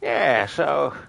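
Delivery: a hint of a rambling old man. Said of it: "Thanks for redeeming the old man impression".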